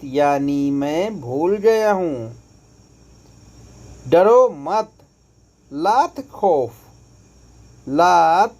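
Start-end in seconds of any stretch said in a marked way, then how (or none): none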